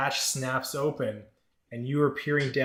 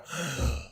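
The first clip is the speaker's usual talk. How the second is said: sharp gasp back to consciousness; reviving gasp; 3 semitones higher than usual. Acted. Crushed patient comes round under healing magic, pained gasp. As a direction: gasp as if brought back to life.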